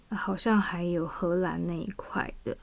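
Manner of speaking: breathy whispered afterthought; whispered aside. Real, not acted. Aside about Dutch ancestry.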